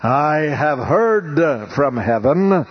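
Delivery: slow, solemn proclamation from heaven; lightly voiced divine pronouncement, very slow; booming voice of God. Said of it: "you hear this booming voice".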